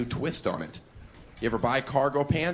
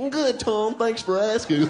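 higher prissy polite white guy; mock nerdy white voice; 10 semitones higher than usual. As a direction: play the goofy white man, chipper. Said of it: "black comics have you heard in your lifetime go".

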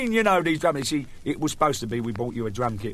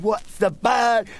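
slow, higher patient voice; drawn-out and puzzled, higher; patient asks, slow; 7 semitones higher, much slower than usual. Acted. Patient asking the nurse, slow and higher. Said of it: "I fucked it up".

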